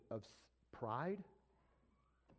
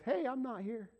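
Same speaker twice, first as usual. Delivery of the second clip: raised voice; 10 semitones higher, 6 dB louder than usual. Retold or imitated.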